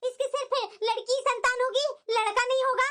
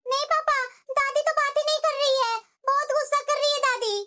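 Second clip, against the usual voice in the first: put-on a small kid tattling to dad; little girl voice. Little girl telling her father grandma is angry.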